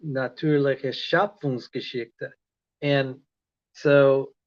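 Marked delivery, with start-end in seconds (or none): 0.1-2.3 slow, deliberate reading of Natürliche Schöpfungsgeschichte; careful German pronunciation. Shown as a demonstration. Learner showing viewers his German, slow careful pronunciation. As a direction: sound out Natürliche Schöpfungsgeschichte syllable by syllable, slowly. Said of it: "I'm trying to speak German".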